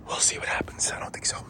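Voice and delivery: unvoiced whispered aside. Real, not acted. Owner doubting he will fix the quad, whispered aside. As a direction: let the doubt slip out under your breath.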